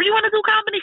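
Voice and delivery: quick high-pitched disbelieving question; high fast quoting. Retold or imitated. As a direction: squeak out the doubt fast. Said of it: "She was like".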